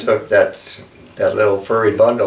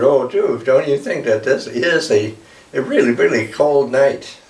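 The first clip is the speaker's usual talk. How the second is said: higher plaintive bird voice; mother eagle voice; 5 semitones higher than usual. Acted. Mother Eagle asks the blackbird, higher and plaintive. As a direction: plead about the cold in a higher voice.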